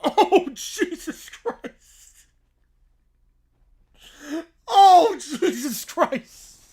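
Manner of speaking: slow, laughing groan of disbelief; shocked laughing oh Jesus Christ. Real, not acted. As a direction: drag it out through a laugh. Streamer reacting to AI story.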